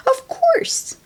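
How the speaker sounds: hint she knows a secret; grandma hinting she already knew; knowing whisper. Acted.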